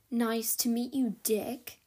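precise, clipped mock of Fitz's accent. Dex mimics Fitz's precise accent to Sophie. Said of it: "in an uncanny impersonation of Fitz's precise accent".

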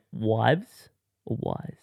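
slow query of "wives" versus "wise". Shown as a demonstration. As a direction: weigh "wives" against "wise". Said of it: "what do you say".

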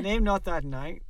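hammed-up stern father. Father forbidding the absent son's name, hammed up. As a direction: boom it out like a pompous Victorian patriarch. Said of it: "I can't do that".

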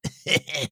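short mean snicker; evil snicker. Acted. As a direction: snigger at your own joke. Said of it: "Buck's laughter".

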